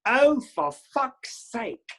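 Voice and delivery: high, slowly drawn-out mock yell; retold scream. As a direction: stretch it out like a fed-up heckler. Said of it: "until somebody screams at me".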